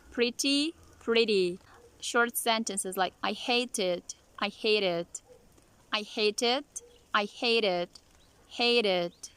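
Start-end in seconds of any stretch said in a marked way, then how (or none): 0.1-1.6 pretty said as priddy; flap T. Shown as a demonstration. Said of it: "Flap T". 3.2-9.3 hate it linked as hay-dit; linked flap T. Shown as a demonstration. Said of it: "You're also connecting".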